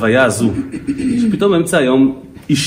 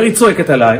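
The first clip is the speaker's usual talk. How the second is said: retold panic; 4 semitones higher, 4 dB louder than usual. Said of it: "זה פחד מוות".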